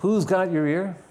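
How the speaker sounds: Who's pitched high, the rest easing off; stress on Who's. Shown as a demonstration. Preacher questions the congregation word by word, stress on Who's. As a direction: lean on "Who's" at the start. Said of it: "A different emphasis on different words".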